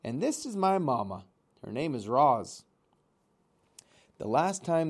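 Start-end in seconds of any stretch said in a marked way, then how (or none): 0.0-2.6 put-on young bird shouting a greeting across the water; shouted over the waves. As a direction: call out over the surf to be heard. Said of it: "he shouted over the waves".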